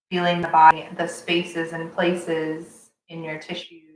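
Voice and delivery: measured meditation voice, pausing between steps; calm breath-cue delivery; guided breathing. Acted. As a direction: lead each breath calmly, leaving space. Leads a breathing exercise.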